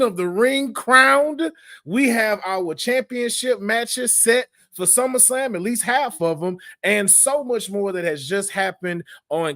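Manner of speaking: show intro hype. Acted. Host opening the podcast for the WWT Universe, announcer hype. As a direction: hype the crowd like a ring announcer.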